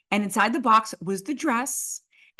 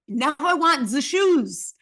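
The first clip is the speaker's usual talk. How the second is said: slow, higher demand in mock Italian; imperious designer; 4 semitones higher, 4 dB louder, slower than usual. Designer demands more clothing from host, slow and imperious. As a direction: draw out the hammed-up Italian order.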